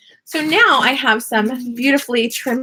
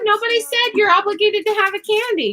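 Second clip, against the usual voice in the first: stern mom scolding, pitched up; mean mommy voice; 6 semitones higher than usual. Real, not acted. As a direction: lay down the law like a strict mom. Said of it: "That's my mean mommy voice".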